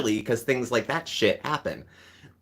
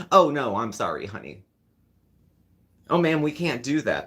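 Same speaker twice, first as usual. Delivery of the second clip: groveling servant mock; 3 semitones higher than usual.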